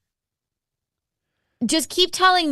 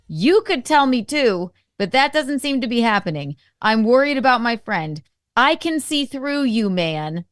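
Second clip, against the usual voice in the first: heated read-out message; 5 dB louder than usual. Retold or imitated. Reading his heated message aloud.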